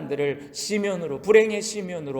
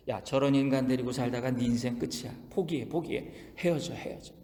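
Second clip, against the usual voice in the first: softer, lower tempting murmur; Satan whispering; 4 semitones lower, 7 dB quieter than usual. Acted. Satan whispering to a married couple, a soft tempting murmur. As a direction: coax them to give up, close to the ear. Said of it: "부부 사이에 속삭여요".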